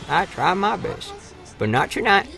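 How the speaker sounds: slow, soft mock lament; mock mopey. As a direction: sigh it out in playful self-pity.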